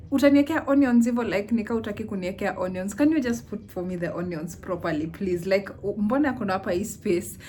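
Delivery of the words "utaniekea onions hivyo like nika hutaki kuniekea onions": outraged inner rant. Retold or imitated. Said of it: "that was my internal processing".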